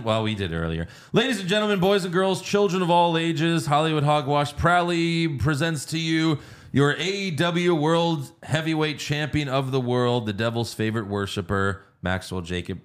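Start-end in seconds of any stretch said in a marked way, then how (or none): 1.1-12.8 ringmaster. Retold or imitated. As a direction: announce it like a wrestling ringmaster. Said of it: "That's not a question".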